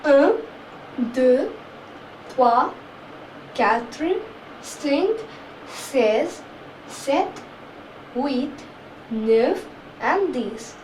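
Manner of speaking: un to dix counted slowly in French; each number spaced out with a rise. Shown as a demonstration. Teacher counting one to ten in French. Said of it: "Once again".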